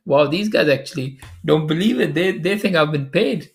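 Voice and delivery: can't believe what they're accusing you of; amazed disbelief. Real, not acted. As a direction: react in astonished disbelief, pitch lifted. Amused disbelief at hostile comments.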